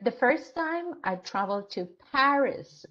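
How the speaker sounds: Paris said as the key word of the sentence; teacher demo, Paris stressed. Shown as a demonstration. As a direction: hit the word Paris to draw attention to the city. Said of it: "so I put stress on Paris".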